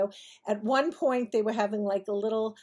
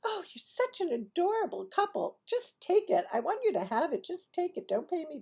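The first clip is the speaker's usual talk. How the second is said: doting mother; 8 semitones higher, 3 dB quieter than usual. Retold or imitated. Mother fawns over buyers.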